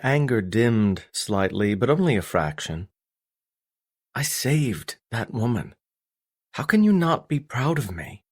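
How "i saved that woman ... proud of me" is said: higher-pitched, wounded son; hurt, incredulous appeal; pleading protest. Acted. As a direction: demand his approval with pitch lifted. Son pleads for father's pride.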